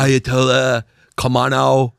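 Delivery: Khamenei botched as "ka-ma-NO"; mispronounced name. Retold or imitated. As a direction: imitate a speech-maker fumbling Khamenei into "Kamano". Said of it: "He mispronounced it".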